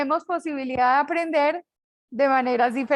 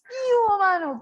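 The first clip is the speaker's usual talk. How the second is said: put-on Santander accent, "hubo" pitched much higher and louder; Bucaramanga greeting; 6 semitones higher, 4 dB louder than usual. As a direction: sing out a Bucaramanga "qué hubo, mano". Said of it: "en Bucaramanga es cierto que decimos". (saludo con acento de Bucaramanga, "hubo" muy alto)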